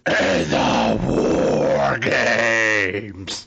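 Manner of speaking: put-on very slow, drawn-out German accent; fake German accent. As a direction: stretch each word like a German announcer. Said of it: "she said".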